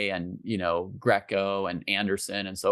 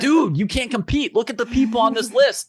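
higher, louder put-on lecturing voice; mock scolding Jesse; 13 semitones higher, 5 dB louder than usual. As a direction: parody him scolding the champion, pitched up. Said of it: "he's like".

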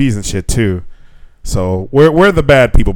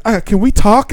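high, hesitant teacher voice; mimicking the teacher; 12 semitones higher than usual. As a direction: pitch it up like the timid teacher.

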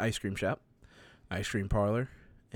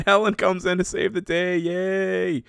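high, loud singsong cheer; playful triumphant fanfare; mock heroic cheer; 8 semitones higher, 5 dB louder than usual. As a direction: celebrate the hero's arrival, hammed-up. Cheering the rescuer's arrival.

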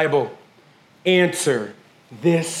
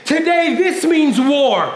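battle cry; 3 semitones higher, slower than usual. Real, not acted. Preacher rallying the congregation.

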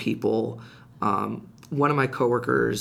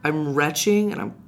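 higher-pitched, emphatic mock complaint; retold protest; 5 semitones higher, 4 dB louder than usual. Sick employee refusing the boss's call to come in, protesting. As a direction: stretch out the objection, pitched up.

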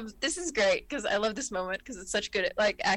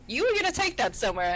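Picard voice; 3 semitones higher than usual. Retold or imitated. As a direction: calmly point it out as the captain. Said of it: "Picard looks at the hypo spray and goes".

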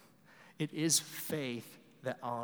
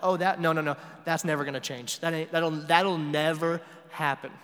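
mock dismissive; 2 semitones higher, 6 dB louder than usual. Mock believer dismissing a need.

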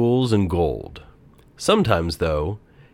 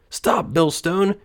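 high, slow and pleading; desperate cry; 11 semitones higher, slower than usual. A narrator's reading. Thief buried in salt, crying out. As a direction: beg the millstone to stop. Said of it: "he cried".

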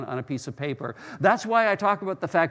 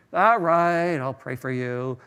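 drawn-out, grudging all right; reluctant agreement; slower than usual. Retold or imitated. Churchgoer cornered into praying for someone, reluctant agreement.

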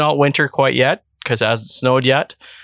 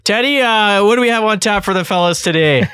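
put-on host voice; 9 semitones higher than usual. Costumed co-host welcomes listeners back to the show, high put-on voice. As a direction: pitch it way up and stretch out the greeting. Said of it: "can you use that voice all the time?".

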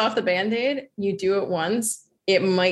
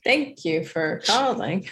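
slow, even robotic phone line; slower than usual. Pretend. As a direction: recite it like a call centre robot. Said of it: "do you want me to switch into, like, a robot voice?".

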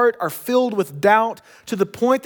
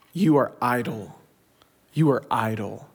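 lower, softer, cold accusation; low stern Pharaoh; 7 semitones lower, 3 dB quieter than usual. Retold or imitated. Pharaoh coldly condemning the Israelite slaves, low and stern.

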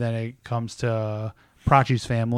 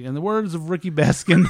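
raised, rising speech-maker's delivery; retold speech quote; 5 semitones higher than usual. Wedding guest quoting a coworker in his speech, announcing. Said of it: "It was like, it was like".

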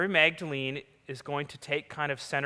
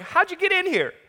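much higher, louder, rapid disbelief; imagined baffled reaction; 11 semitones higher, 10 dB louder than usual. Pretend. Preacher imagining meeting glowing angels, baffled and loud. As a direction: gush with wide-eyed confusion. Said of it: "I would have been like".

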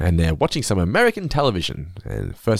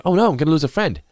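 high squeaky quote; 11 semitones higher than usual. Retold or imitated. Retelling Terrence and Philip dialogue.

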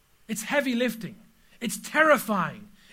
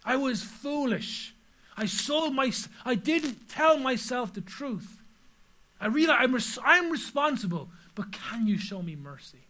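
retold prayer. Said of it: "I cried to God".

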